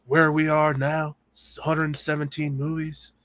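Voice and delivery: slow, drawn-out mock Nick Cage delivery; doing Nick Cage for a friend, slow and dramatic; Nick Cage impression. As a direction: lean into a hammed-up Nicolas Cage reading, slowly. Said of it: "Nick Cage".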